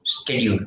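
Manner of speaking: "schedule" with a hard sk, SKED-yool; YouTube pronunciation. Shown as a demonstration. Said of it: "they were pronouncing".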